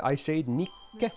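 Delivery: Nikke said slowly, with a clear pause at the double k; slow demo of Nikke. Shown as a demonstration. To chat explaining her name, saying Nikke with the pause. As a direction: draw out Nikke, holding the k before the final e. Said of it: "How would I say Nikke?".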